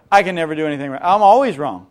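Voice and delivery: loud, hammed-up self-pity; self-pitying whine. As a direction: wail that you are always wrong. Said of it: "this little monologue of".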